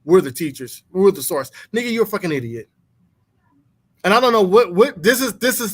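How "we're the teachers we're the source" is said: smug, self-important mock preacher; mocking Papa Pat. Friends hear him mock a self-taught guru's smug boast. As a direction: parrot his boasts with scorn. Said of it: "Papa Pat said that shit".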